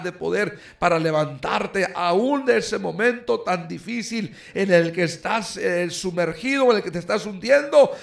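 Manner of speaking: el maestro calmando a Pedro, un poco más agudo; voz del maestro. Retold or imitated. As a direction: como Jesús tendiendo la mano a Pedro que se hunde. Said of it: "el maestro le dice". (predicador imitando al maestro con voz serena y elevada)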